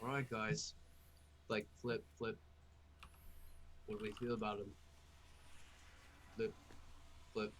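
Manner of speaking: soft, quiet, hushed tone. Player flipping cards and asking the others what they think: hushed tone. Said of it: "go in a hushed tone".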